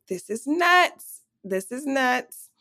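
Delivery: slow, drawn-out stunned disbelief; disbelieving. Retold or imitated. Friend hearing the sneak-in plan, slow stunned disbelief. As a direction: let each word sink in, amazed.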